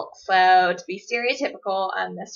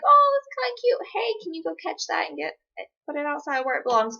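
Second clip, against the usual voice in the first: delighted cooing; 5 semitones higher than usual. Retold or imitated. Delighted by a tiny lizard.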